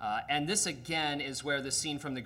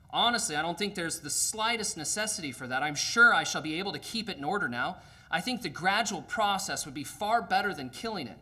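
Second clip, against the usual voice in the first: higher, louder, anxiously polite ghost; pleading ghost; 4 semitones higher, 5 dB louder than usual. Acted. Ghost pleads with the angel not to kill the lizard. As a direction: beg him off with nervous politeness.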